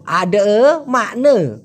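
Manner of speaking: "আডে", pause, "মানে", each ending in a schwa; broken-down wavy pronunciation. Shown as a demonstration. Teacher showing learners how it sounds, wavy pronunciation. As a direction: split "আডে মানে" in two, final vowels as uh. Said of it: "কীরকমটা হলো?".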